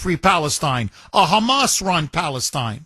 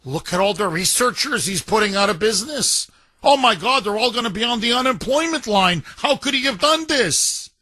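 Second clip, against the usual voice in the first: mock outraged Democrat; 3 semitones higher, faster than usual. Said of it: "they'd say".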